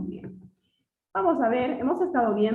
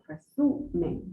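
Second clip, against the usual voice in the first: "Resumen" with SU brought out; "Resumen", higher, stressed on SU; stress on the middle syllable; 4 semitones higher, 4 dB quieter, slower than usual. Shown as a demonstration. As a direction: lean on the SU in "Resumen". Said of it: "en la sum".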